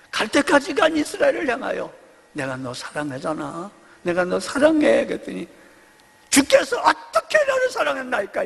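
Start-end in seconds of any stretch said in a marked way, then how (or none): 2.3-5.0 gentle plea. Retold or imitated. God pleading with Israel. 6.3-8.4 higher, spiteful challenge; spiteful retort. Retold or imitated. Israel answering God's love, spiteful retort. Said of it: "악척을 떠는 거예요".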